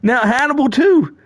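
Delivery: lightly voiced Hannibal, high and put-on; Hannibal impression. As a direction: slip into a mock Hannibal voice. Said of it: "now I'm doing Hannibal".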